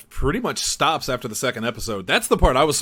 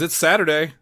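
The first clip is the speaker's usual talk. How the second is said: excited. Shown as a demonstration. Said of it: "try that again".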